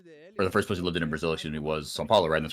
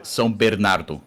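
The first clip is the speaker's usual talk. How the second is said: Portuguese place name in a São Paulo accent; 4 dB louder than usual. Shown as a demonstration. Asking listeners to judge the pronunciation, São Paulo accent. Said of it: "is that a São Paulo accent".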